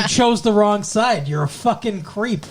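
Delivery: mildly mock-scolding, a little emphatic; retold telling-off. Willow telling off the traitor Faith, mock scolding. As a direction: act out laying into someone, without real anger. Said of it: "Willow fucking tells her off".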